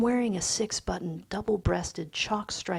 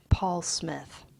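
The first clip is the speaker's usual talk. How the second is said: whispered; 3 dB louder than usual. Shown as a demonstration. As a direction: breathe the name out. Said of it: "title repeated as the text begins".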